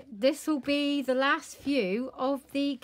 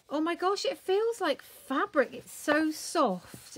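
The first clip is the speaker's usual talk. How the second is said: delighted gasp; 5 semitones higher than usual. Real, not acted. Opening Karen's entry, touching the paper, delighted and high. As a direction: gush over paper that feels like fabric.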